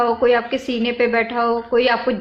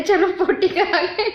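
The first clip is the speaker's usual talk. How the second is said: higher, slowed words breaking into laughter; giggling plea; 5 semitones higher than usual. Real, not acted. Begging family for a toilet escort, giggling. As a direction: plead while cracking up.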